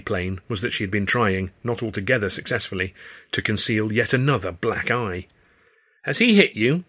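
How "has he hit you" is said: much higher and louder demand; too loud. A narrator's reading. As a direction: blurt it out without caring who hears. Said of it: "I said, again too loudly".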